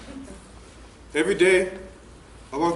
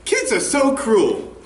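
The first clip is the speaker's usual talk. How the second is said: higher-pitched mom impression; imitating mom; 4 semitones higher than usual. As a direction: mom offering sympathy in a raised pitch. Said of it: "And mom said".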